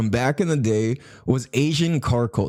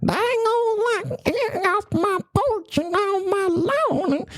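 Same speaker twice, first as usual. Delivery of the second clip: much higher, slow mock grumpy old man; high, slow hammed-up get-off-my-lawn old man; grumpy old rural man; slower than usual. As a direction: shout at kids off the porch like a cartoon codger. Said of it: "American culture".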